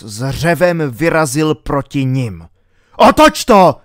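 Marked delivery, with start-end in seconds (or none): 3.0-3.8 high, very loud shout; full-force, high-pitched yell; panicked roar. A narrator's reading. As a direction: bellow an urgent order. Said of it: "zařval King".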